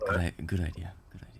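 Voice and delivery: voiced, in-character stage whisper. Half-whispering to another player character in front of guards: half-whispering in character. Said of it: "And I'll just whisper".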